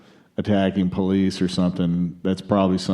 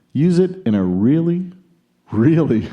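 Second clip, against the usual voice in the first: higher, mock-Aussie quote reading; put-on Australian accent; 6 semitones higher than usual. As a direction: read it in a butchered Australian accent. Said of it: "he didn't say it in this accent".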